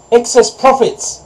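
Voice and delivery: high, loud, drawn-out cow's cry; storybook cow's indignant outcry. A narrator's reading. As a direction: cry it out slowly as an accusation. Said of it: "cried the cow".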